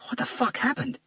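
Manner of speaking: dazed partner coming round, swearing; Garcia's voice. A narrator's reading.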